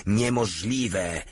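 a drawn-out, understated roar; slow roar. Acted. General hearing of the resistance, slow disbelieving roar. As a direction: stretch the word out like a disbelieving roar. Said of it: "zaryczał".

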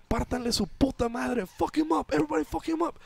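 very high-pitched rallying cry, no extra volume; retold yell. Bus driver calling passengers onto the robber, mock yell. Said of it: "and yells".

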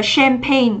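"champagne" stressed on the second syllable, pagne; teacher modelling cham-PAGNE. Shown as a demonstration. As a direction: put the weight on the end of "champagne". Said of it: "à quên, trọng âm hai".

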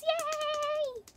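slow, high, stretched-out yay; drawn-out cheer. Real, not acted. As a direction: cheer it long and airy. Cheering for top gifter.

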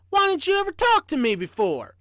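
high-pitched, wondering engineer; amazed. A narrator's reading. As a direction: ask it in eager disbelief. Amazed engineer questions the living train.

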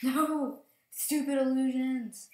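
loud, high, drawn-out yell at the game; frustrated shout. Real, not acted. Gamer yelling at a fake house on screen, loud and high. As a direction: shout in real frustration at being fooled.

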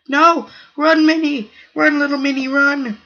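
high, loud urging to run; urgent cheering. Real, not acted. Gamer urging his small cell Minnie to flee, urgent cheer. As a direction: cheer the little one to escape.

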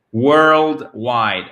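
"Worldwide" stretched and fully articulated; deliberate, drawn-out "Worldwide"; effortful articulation. Shown as a demonstration. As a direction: open the mouth fully through "Worldwide". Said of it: "Faites cet effort".

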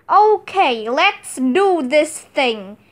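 eager shouted start that settles down; a TV-studio boss kicking things off with a shout. Acted. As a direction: call out to the crew to begin. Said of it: "shouted Miss Cuddy".

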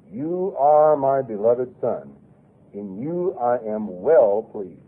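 very slow, solemn, measured; voice from heaven. Acted. Preacher voicing God's words at the baptism, solemn and slow. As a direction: pronounce it slowly like a divine proclamation.

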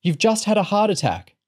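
high, urgent warning; desperate shout. A narrator's reading. Girl warning a struggling patient, desperate shout. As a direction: raise the voice in desperation. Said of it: "Bethany shouted desperately".

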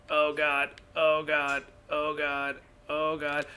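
loud frightened gasps of god; scared. Real, not acted. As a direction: panic at the sight. Monster spotted, fear.

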